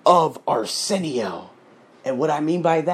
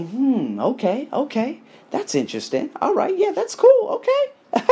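mock casual shrug; 10 semitones higher than usual.

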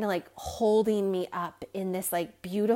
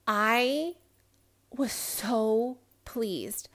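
whispered; much slower than usual. Real, not acted. Confiding her scale joy.

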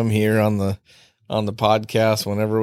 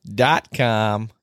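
announcer voice; slower than usual. Pretend. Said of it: "get into our announcer voices".

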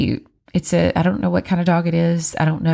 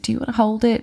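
higher, coaxing offer; lady coaxing mom to hold the puppy, higher and sweet; imitating the dog lady; 6 semitones higher than usual. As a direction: tempt them with the puppy in her voice. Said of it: "she's like".

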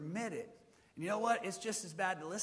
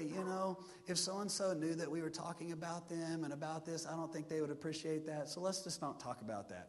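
gentle and kind; 4 dB quieter than usual. Shown as a demonstration. Pastor showing gentle congregants how to refuse gossip, softly. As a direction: ease them off gossip tenderly. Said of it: "very gently and very lovingly".

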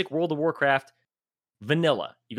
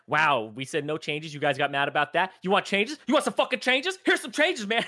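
mock Blizzard rant. Blizzard taunting players who asked for changes, rising into mock anger. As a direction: build from smug calm to a gloating jab. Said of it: "they're like".

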